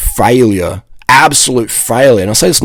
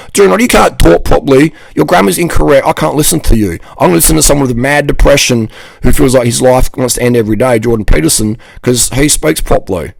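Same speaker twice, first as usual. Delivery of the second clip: mock critic voice; 3 semitones higher than usual. A mocking critic scoffs at his grammar, sneering. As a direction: mimic the snobby guys nitpicking his grammar.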